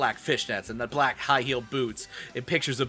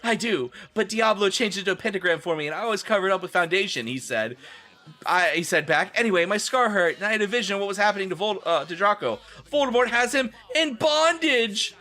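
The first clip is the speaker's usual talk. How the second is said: excited character voice; 7 semitones higher than usual. Acted. Harry explains excitedly.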